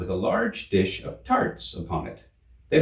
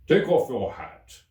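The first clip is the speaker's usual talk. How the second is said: the king; 3 semitones higher, 3 dB louder, slower than usual. A narrator's reading. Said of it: "the king said to the Hatter".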